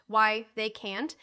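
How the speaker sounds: slow, emphatic "can't"; measured emphasis landing on "can't". A narrator's reading. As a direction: say "can't" firmly and deliberately. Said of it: "said Van in an emphatic voice".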